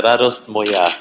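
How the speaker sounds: Radost Moja said as RA-dost MO-ya, the Russian way; Radost Moja correction. Shown as a demonstration. Singer corrects the host: Radost Moja, native Russian sounds. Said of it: "Yeah, uh".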